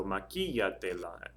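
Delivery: "maquillatela" slowed, leaning on QUI; stress on QUI. Shown as a demonstration. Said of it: "accent's over the I".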